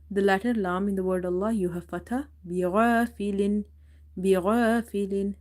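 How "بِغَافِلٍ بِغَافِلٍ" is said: بِغَافِلٍ with thick ghain and long dark "aa"; heavy ghain. Shown as a demonstration. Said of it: "Ghain is heavy".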